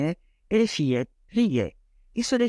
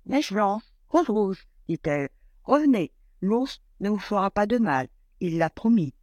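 higher, lightly voiced kind mother; 5 semitones higher than usual. Mother welcoming the cold bear inside, lightly voiced kind mother. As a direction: welcome him gently, a hint of mother. Mother calling girls back.

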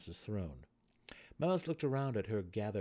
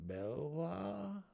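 quick reply; 9 semitones higher than usual. A narrator's reading. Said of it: "replied immediately".

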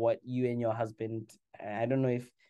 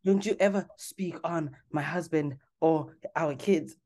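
mock angry warning; 7 semitones higher than usual. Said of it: "voicing Rinna's outburst".

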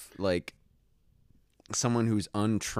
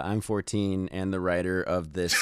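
mock deep voice, slightly lowered; deeper voice; 2 semitones lower, 4 dB quieter than usual. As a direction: drop the voice a bit deeper. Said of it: "I said that with a deeper voice".

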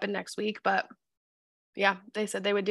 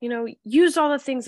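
put-on higher whiny teen voice quoting her; a hint of a frustrated teenager, pitched up; mimicking daughter; 5 semitones higher, 3 dB louder than usual. Mom quoting her teen's complaint, whiny and high. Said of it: "she was like".

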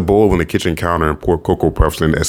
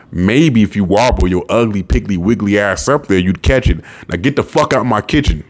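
mocking stepfather voice; 3 semitones higher than usual. Stepfather taunting, then ordering out.

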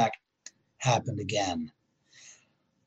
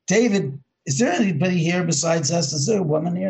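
mild mock call down the stairs, higher; calling downstairs to David, half-shouted; retold yell; 5 semitones higher than usual. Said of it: "he yells down".

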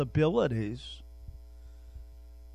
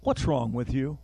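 preacher calling his own name at the mirror, loud; mock self-scolding; 4 dB louder, slower than usual. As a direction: scold yourself in the mirror with a sharp call. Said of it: "I look and say".

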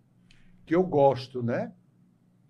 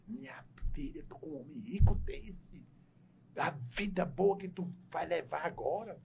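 hushed unvoiced scolding; mother's whisper; 3 semitones higher, 6 dB quieter than usual. Mãe cochicha à filha. (mãe cochichando pra filha, sussurro)

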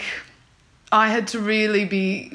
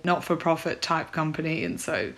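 fading to a lower, softer mumble; trailing off; 3 semitones lower, 5 dB quieter than usual. Real, not acted. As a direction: let the sentence die away. Voice fades out mid-thought.

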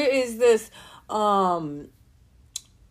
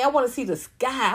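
ordinary talk

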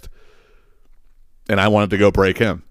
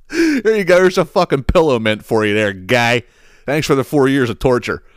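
high, mocking sing-song gloat; gloating taunt; 4 semitones higher than usual. Son taunting stepdad over the soiled clothes, mocking gloat. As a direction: rub it in with glee.

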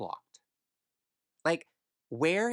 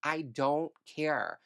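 sarcastic, raised and fast, dropping to a muttered insult; scornful dismissal; 4 semitones higher than usual. Real, not acted. To the sulking date, a scornful sarcastic send-off. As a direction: show him the door with contempt.

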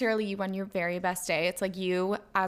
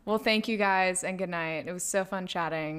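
lightly put-on British accent; a playful touch of British. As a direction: sign off in a slightly British voice. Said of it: "doing this British accent".

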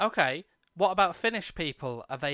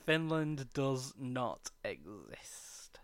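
alarmist doom warning; 2 semitones lower, 6 dB quieter, much slower than usual. Pretend. Slow ominous conspiracy echo.

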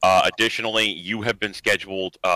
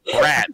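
BRAT with a clear opening B; corrected first sounds; 4 semitones higher, 3 dB louder than usual. Shown as a demonstration. Correcting a listener who misheard, BRAT with clear B. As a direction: hit the B at the front of Brat. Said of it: "There's a B in that word".

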